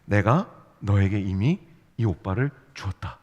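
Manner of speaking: low, slow, solemn dream pronouncement; God. Acted. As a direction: pronounce it slowly and low, as a divine decree. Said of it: "하나님이 어느 날 밤에 여러분 꿈에 나타나신". (낮고 느리게 엄숙한 계시 목소리)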